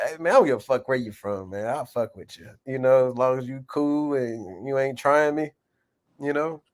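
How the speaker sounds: normal talking voice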